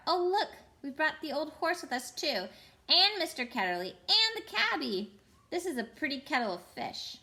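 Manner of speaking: high, dismayed exclamation; crying out. Acted. Polly crying out on seeing who came along, high. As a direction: cry it out in alarm. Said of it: "Polly cried out".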